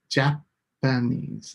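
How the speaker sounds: "Japanese" drawn out slowly, NESE leaned on; slow stress on NESE. Shown as a demonstration. Teacher slowing the word to show the stressed syllable. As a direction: stretch "Japanese" to mark NESE. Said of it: "Those are our stress syllables".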